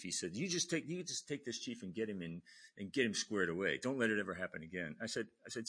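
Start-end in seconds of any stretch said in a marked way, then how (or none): 0.3-5.0 raised-voice imitation of a superior's orders; retold angry orders. Officer ordering junior to sort out chief, retold angry orders. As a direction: bark it out, retelling a reprimand. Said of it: "getting yelled at by the E".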